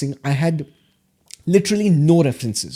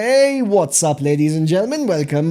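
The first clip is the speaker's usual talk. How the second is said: raised, punched opening hail to a crowd; mock MC greeting; 3 dB louder than usual. Student practising on the way to college, mock MC greeting. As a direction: playfully announce yourself like a stage host. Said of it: "I'll say stupid things like".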